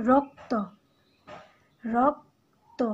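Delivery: রক্ত said clearly with an open অ after র; example word. Shown as a demonstration. Teacher giving the class an example word, clear and careful. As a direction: say রক্ত as ro-kto, cleanly. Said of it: "আমি উদাহরণ বলছি".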